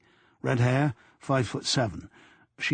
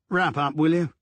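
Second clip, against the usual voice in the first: a curt, irritated snap; testy boss shutting down a joke; snapped; 4 semitones higher than usual. A narrator's reading. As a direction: cut him off sharply. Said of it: "Diamond snapped".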